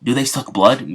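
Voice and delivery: retold excited questions, lightly acted; mildly excited. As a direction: lift the voice with a touch of eager wonder. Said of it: "he starts getting excited".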